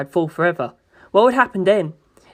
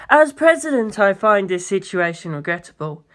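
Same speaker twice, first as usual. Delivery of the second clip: presidential speech; 2 semitones higher than usual. Acted. Funny speech.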